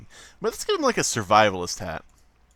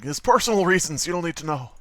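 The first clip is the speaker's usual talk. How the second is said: higher, defensive mock movie hero; Nicolas Cage; 6 semitones higher than usual. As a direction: brush off the question as a film hero. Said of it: "And he's like".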